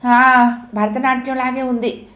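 a patient loudly ordering the nurse; loud retort. Acted. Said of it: "అన్నాడు గట్టిగా". (గట్టిగా, వ్యంగ్యంగా)

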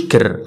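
كر with a pronounced R, "ker"; sounded R. Shown as a demonstration. Teacher isolating the syllable to avoid, sounded R. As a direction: stress the R in كر as a mistake. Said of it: "في البريتش ما نقولوش".

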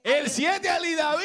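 calling out. Real, not acted. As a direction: call it out slowly like an announcement. Anuncia el siete a gritos. (anunciándolo en voz alta y arrastrada)

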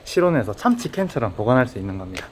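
muffled by cloth mask; speaking behind mask; through a face mask. Real, not acted. Seen 1: Speaker wears black face mask over mouth throughout; unmasked in references.

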